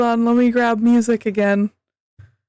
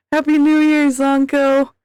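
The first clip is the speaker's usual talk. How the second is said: cheerful greeting; 4 semitones higher than usual. Real, not acted. Greeting a chatter.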